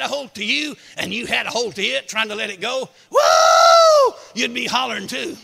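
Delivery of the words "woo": sudden loud high yelp; preacher acting the victim's whoop. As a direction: yelp like you're caught. Imagining being held by wildcat.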